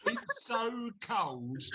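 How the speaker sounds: laughing while speaking. Real, not acted. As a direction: laugh through the words. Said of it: "your chin is shaking".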